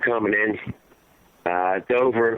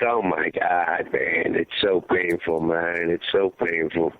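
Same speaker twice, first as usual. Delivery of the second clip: retold anguish; 8 semitones lower, slower than usual. Grieving father recalls the caskets.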